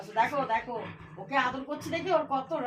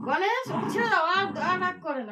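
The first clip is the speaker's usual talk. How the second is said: firm call; 6 semitones higher, 3 dB louder than usual. Real, not acted. Telling one pet to release other.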